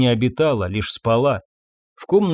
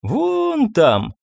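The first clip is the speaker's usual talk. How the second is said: put-on high child voice; 9 semitones higher than usual. Child pointing, quoted line.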